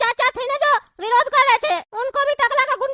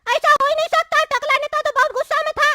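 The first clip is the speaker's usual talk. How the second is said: higher-pitched, incredulous questioning; disbelieving surprise; 3 semitones higher than usual. Acted. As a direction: react as if the boast can't be true. Brother doubts the boast. (हैरानी और अविश्वास से)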